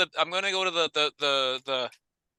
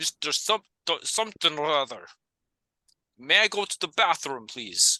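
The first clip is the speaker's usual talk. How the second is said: bad, fake, vaguely Dutch put-on accent. Acting out asking to leave class, in a fake dutch accent. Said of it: "try to do like a fake Dutchish".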